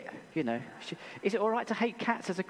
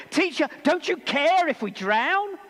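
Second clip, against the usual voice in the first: high, loud desperate plea; panicked cry; 8 semitones higher, 6 dB louder than usual. Acted. Disciples crying to sleeping Jesus in panic, loud and high. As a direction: cry out as the boat sinks. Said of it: "It was a cry of panic".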